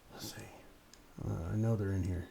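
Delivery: whispering while searching; hushed, half to himself; searching for apples. Real, not acted. Hunting apples in the tree.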